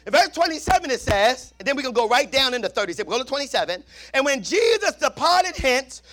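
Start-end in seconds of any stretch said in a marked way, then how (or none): 4.1-6.0 scripture read at full force. Acted. Preacher to congregation, slow ringing scripture read. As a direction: draw out the blind men's plea.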